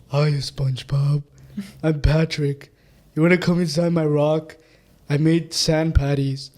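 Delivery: slow, drawn-out cartoon starfish voice; Patrick. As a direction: play a slow-witted cartoon sidekick. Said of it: "you want me to start with Patrick".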